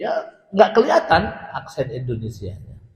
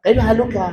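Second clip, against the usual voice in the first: high-pitched mock-wrong "kaifa haluka"; Arabic kaifa haluka in wrongly borrowed Indonesian intonation; Indonesian tune on kaifa haluka; 8 semitones higher, 4 dB louder, faster than usual. Shown as a demonstration. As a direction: sing haluka with an Indonesian question lilt. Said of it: "Itu jangan dibawa ke bahasa Arab".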